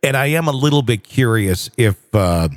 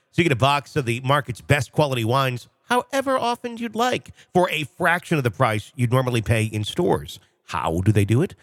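softer, polished podcast ad delivery; sponsor ad read; 3 semitones higher, 5 dB quieter than usual. Real, not acted. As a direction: read the sponsor copy smoothly to listeners. Host reads sponsor ad.

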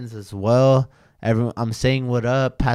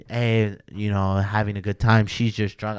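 playing it off. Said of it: "playing it off".

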